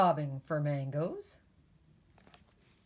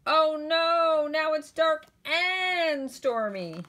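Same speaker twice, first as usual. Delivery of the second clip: high, loud, slowing cry of dismay; alarmed; 11 semitones higher, 6 dB louder, slower than usual. Acted. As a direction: wail it as the fear sinks in. Tim frightened by the noise.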